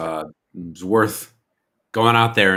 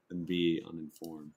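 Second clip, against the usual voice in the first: a pinched nasal character voice; nasally voice; 6 dB louder than usual. Acted. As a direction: talk through the nose, haughty. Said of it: "my nasally voice".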